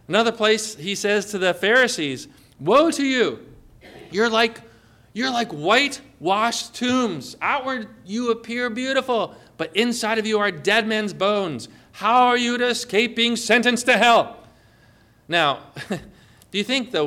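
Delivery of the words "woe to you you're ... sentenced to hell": raised, forceful denunciation quoting Jesus; sharp rebuke. Retold or imitated. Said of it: "all the time had sharp, strong words".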